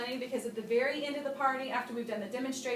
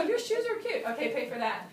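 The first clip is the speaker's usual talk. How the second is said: laughing guest. Retold or imitated. Guest complimenting shoes for money, laughing. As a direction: toss the line off through a laugh. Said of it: "they'll go".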